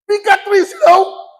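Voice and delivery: high, slow, loud sing-song coaxing; mock consoling a child. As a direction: parody someone coaxing a small child. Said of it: "Eu acho que eu sou criança". (consolo debochado, como para criança)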